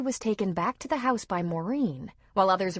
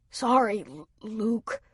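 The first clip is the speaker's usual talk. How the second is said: teeth chattering; 4 semitones higher, slower than usual. A narrator's reading. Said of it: "teeth chattering".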